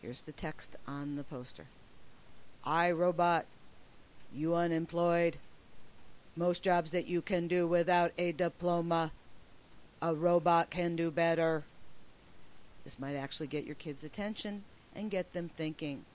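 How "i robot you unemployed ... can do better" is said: even, louder robotic monotone. Shown as a demonstration. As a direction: speak each phrase like a machine. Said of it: "I like to suggest you do it sounding like a robot".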